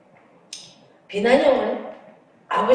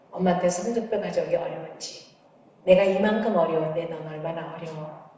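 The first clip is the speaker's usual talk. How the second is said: gentle, refined mother; 2 semitones lower than usual. Retold or imitated. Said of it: "내가 그렇게 고상하게 나왔어요".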